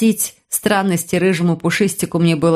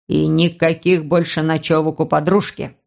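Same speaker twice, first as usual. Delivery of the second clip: caustic remark; 3 semitones lower than usual. Acted. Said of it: "язвительно добавил он".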